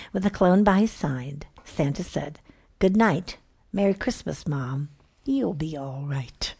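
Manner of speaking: lively rhythmic poem recital; poem reading. A narrator's reading. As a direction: read it with bouncy rhyme and timing. Reads a comic Christmas poem aloud.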